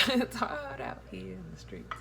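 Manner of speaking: laughing echo of his line. Retold or imitated. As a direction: chuckle through the words.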